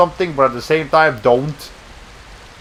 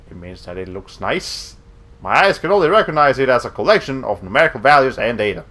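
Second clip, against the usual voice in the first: robot voice. Acted. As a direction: speak like a calm android. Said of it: "a sort of robot voice".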